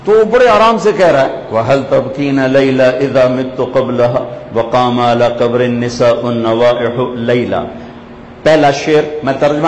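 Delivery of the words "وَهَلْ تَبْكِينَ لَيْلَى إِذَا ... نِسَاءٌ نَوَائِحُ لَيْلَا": measured, metrical poetry recital; Arabic verse recitation. Acted. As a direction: recite the classical verse in even cadence. (عربی شعر خوانی)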